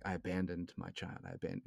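hushed, held-back confession; whispering. Retold or imitated. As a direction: keep it under the breath. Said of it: "he tries to whisper".

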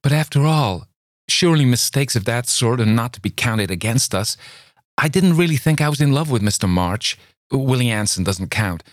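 high, eager outpouring; passionate pleading. A narrator's reading. Luli pleading with Campbell, high and eager. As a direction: pour out her love to him.

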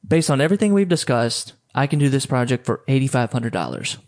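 calm, certain price quote; confident quote. Shown as a demonstration. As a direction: state the price flatly and stop. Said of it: "say it just like this".

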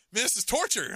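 high, hammed-up lament; mock despair. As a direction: overplay the suffering husband. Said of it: "I was just like".

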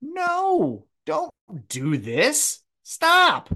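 high-pitched panicked yelling, hammed up; alarmed high voice. The Acclaim rushing the ring, mock panicked high voice. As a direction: squeal it like a startled wrestler. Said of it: "they're like".

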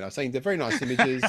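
speaking up for the mic. Real, not acted. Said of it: "You're a bit quiet".

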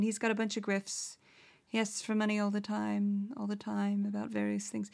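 subdued affected fake British accent; quiet mock British voice; Andy Ngo. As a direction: keep up the meek pseudo-British lilt. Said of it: "that's my Andy Ngo impression".

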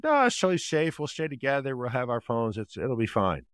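lightly voiced teen reassuring mom; pleading teen daughter.

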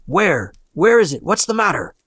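high, startled questioning; jolted awake in alarm. A narrator's reading. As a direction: fire off alarmed questions, pitch leaping up. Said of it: "He started up in alarm".

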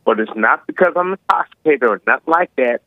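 slightly slurred speech; slushy sh for s, mouth not forming words; slurring. Real, not acted. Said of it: "sometimes it may sound like I'm slurring my speech".

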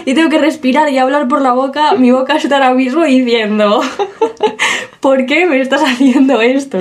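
blocked nose, breathing through mouth; stuffy nose. Real, not acted. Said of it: "no puedo respirar por la nariz".

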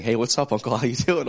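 mock cheery phone greeting to an uncle; upbeat greeting. Acts out nephew greeting uncle.

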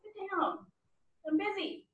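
calmly dismissing. Pretend. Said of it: "you're just like".

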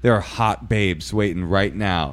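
slow hotline sales pitch; lightly imitated info-line recording; teaser message. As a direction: drawl it like a phone-sex advert. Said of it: "little teaser messages".

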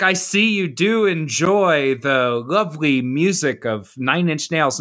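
slow, lightly imitated Renaissance fair performer; a hint of ye-olde fairground player. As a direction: draw it out in half-hearted mock-courtly speech. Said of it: "said to me in a Renaissance voice".

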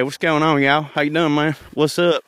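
lightly imitated laid-back Southern accent; easygoing Southern greeting, lightly put on; a hint of a cool Southern accent; McConaughey. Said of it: "like, more McConaughey".

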